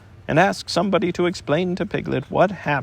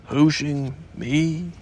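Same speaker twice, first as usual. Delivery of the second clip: slow, heavy repeat of Hooshing me; ponderous donkey echo of Hooshing; much slower than usual. Acted. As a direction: drag Hooshing out gloomily. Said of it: "said Eeyore in surprise".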